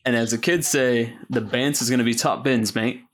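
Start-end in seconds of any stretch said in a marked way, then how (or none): 1.3-3.0 a light put-on British accent, laddish slang; hint of a London lad's British accent; mock British accent. Host jokes to co-hosts in a mock British accent. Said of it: "I didn't even attempt a British accent".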